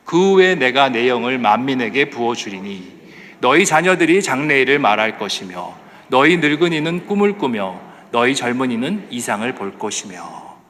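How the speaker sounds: measured, declaimed Bible verse; scripture reading. Acted. Preacher leading the congregation in verse twenty-eight, scripture reading. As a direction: read it out for a congregation to follow.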